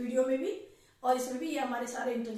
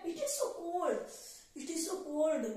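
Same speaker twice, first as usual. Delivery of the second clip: shivering with cold; 4 semitones higher, much slower than usual. Shown as a demonstration. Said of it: "ब्रुर इस तरह बोलते हैं".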